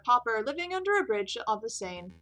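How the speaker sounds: lightly voiced, theatrical impostor. Prisoner listing his assumed identities, theatrical. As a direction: announce each alias with a flourish. Game character Juan, voiced.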